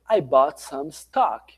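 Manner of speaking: very slow, each word laid out; slow demo read. Shown as a demonstration. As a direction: read slowly as a model line. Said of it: "colocar emoção, colocar entonação".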